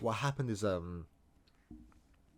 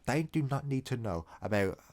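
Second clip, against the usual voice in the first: a hammed-up, indignant pupil's lecture, only lightly voiced; mock outrage rant; 3 semitones higher than usual. Storyteller joking about a scream at school, mock-indignant rant. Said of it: "I'm trying to make a joke right now".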